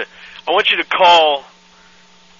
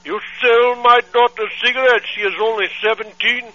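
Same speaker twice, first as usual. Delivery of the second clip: put-on accented angry father on the phone; angry foreign dad; 4 semitones higher than usual. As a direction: scold like an outraged immigrant dad. Prank caller's put-on voice.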